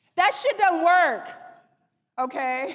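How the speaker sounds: shouting with sheer excitement. Speaker addressing an audience after asking if cursing is okay, excited shouting. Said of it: "I'm shouting, sorry, I'm excited".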